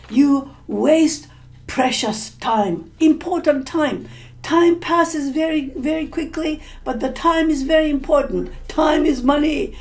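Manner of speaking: stern angry father. Acted. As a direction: scold him like a disappointed father. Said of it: "he was very angry".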